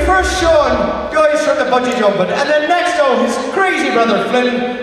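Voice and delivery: put-on Irish accent. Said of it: "He was Irish, not Scottish".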